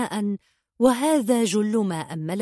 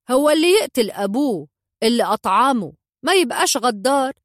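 higher and louder, hitting يقتل hard; scornful retort; 5 semitones higher, 5 dB louder than usual. A narrator's reading. Sultan mocking the boy who denies being treacherous, scornful loud retort. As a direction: throw his own crime back at him.

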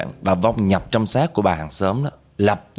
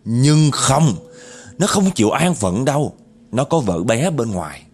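aggrieved ghost woman's tale; 5 semitones higher than usual. Retold or imitated. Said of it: "vừa nói vừa gằn giọng mà vừa chửi mà vừa ấm ức".

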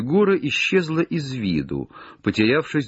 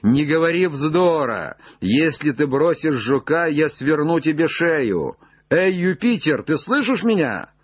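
raised, high-pitched threat; scolding call; 5 semitones higher than usual. Acted. Legrand threatens Jupiter over the beetle, scolding call. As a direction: scold someone far above you. Relieved master scolding up the tree.

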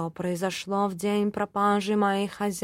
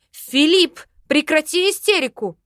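loud, high command; loud sharp bark of a command; barking order; 7 semitones higher, 7 dB louder than usual. Acted. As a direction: snap the cat out of his fit. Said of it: "рявкнула я".

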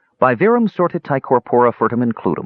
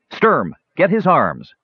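urgent command, higher and drawn out; ordering; 8 semitones higher, slower than usual. A narrator's reading. Tannen sets his brothers on the dwarf, ordering. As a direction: give a firm, high-pitched order. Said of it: "Tannen ordered".

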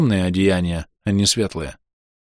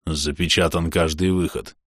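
low, softer undead voice; skeleton voice; 5 semitones lower, 5 dB quieter than usual. Acted. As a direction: speak like a lightly voiced skeleton. Anrul speaks.

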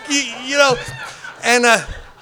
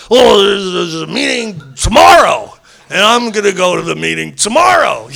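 retold protest; 5 dB louder than usual. Acts his protest to Jorge.

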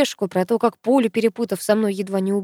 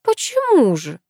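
surprised; 8 semitones higher, 3 dB louder, slower than usual. A narrator's reading. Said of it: "удивилась бабуля".

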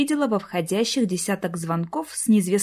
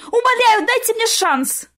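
much higher, louder desperate yell; 14 semitones higher, 4 dB louder than usual. A narrator's reading. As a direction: scream down the phone with all she has. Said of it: "что было сил, заорала в трубку".

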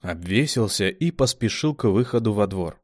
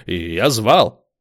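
slow, louder protest; defensive; 7 dB louder, slower than usual. A narrator's reading. Zames defending himself, louder protest.

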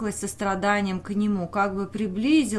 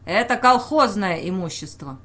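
curt, unshakable; 5 dB louder than usual. Acted. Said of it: "коротко, неколебимо отрезал".

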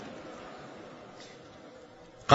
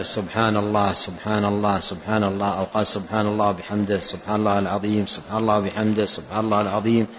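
quick, softer run of سبحان الله; quick repeated tasbih; 4 dB quieter than usual. Shown as a demonstration. Teacher showing how easily one repeats dhikr, quick and soft. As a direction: rattle off the phrases lightly, under the breath. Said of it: "وكررها كثير جدًا".

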